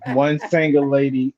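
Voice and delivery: "One single lady" said through a laugh; amused repeat. Real, not acted. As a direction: repeat it with a chuckle. Repeats wrong word while laughing.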